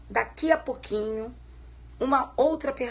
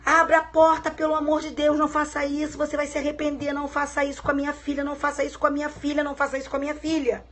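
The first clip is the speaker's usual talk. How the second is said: retold mother begging, a touch higher and fast; desperate plea; 3 semitones higher, faster than usual. Mother begging the man behind the door, mildly desperate and rushed. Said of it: "a Ana batia desesperada na porta".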